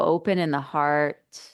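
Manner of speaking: unhurried guide, with long pauses between phrases; settling meditation instructions, spaciously phrased; guided meditation. Acted. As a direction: ease listeners inward, leaving space after each phrase.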